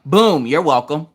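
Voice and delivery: slow, smug boom you're welcome; smug sign-off. Pretend. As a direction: say it like a mic drop. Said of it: "as soon as they get ready to hang up".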